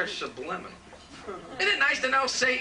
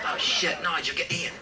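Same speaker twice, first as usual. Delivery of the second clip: ordinary talk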